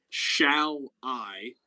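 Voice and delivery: "shall I" drawn out slowly, weight on "I"; unstressed "shall", stressed "I". Shown as a demonstration. Showing students an iamb, slow "shall I" stressing "I". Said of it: "whereas I is a stressed syllable".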